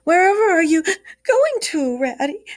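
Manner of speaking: high, loud tearful call of the Mole; tearful cry. Acted. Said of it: "cried a tearful Mole".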